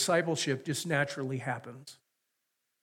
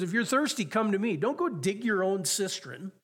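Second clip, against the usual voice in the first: raised, higher pleading call; preacher voicing Jesus crying out to the thirsty; 5 semitones higher than usual. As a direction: cry it out as an urgent invitation. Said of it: "he cries out and he says".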